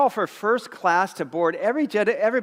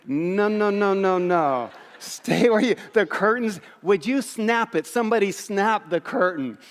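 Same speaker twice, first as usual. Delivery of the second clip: higher, frantic no no no at the intruders; mock panicked shooing; 3 semitones higher than usual. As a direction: shoo them back like a fussy first-class snob. Shooing coach passengers from curtain.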